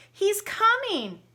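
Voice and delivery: high, loud panicked warning; frightened cry. Acted. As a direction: warn him in a panic. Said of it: "cried the giantess".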